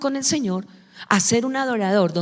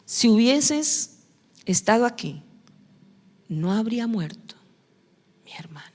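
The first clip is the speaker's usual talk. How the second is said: Mary's grief. Retold or imitated. Preacher voicing Mary grieving at Jesus' feet, fading whisper. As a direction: let it sink away into a hushed sob-like breath. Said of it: "¿Le dijo lo mismo?".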